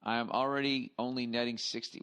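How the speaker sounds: loud, slow mock read-out; reading aloud mockingly. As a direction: read it like a pompous relative.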